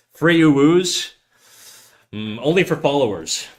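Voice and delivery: squeaky cutesy call; cute uwu voice. Pretend. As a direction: coo it like a cute anime voice.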